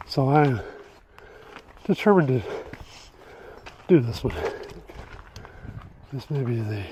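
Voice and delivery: panting after the climb; winded, short of breath. Real, not acted. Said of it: "so I can catch my breath".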